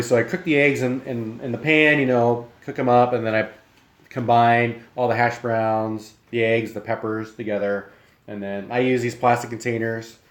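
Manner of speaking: talking through a mouthful; chewing while explaining; mouth full. Real, not acted. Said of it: "I'm talking with my mouth full".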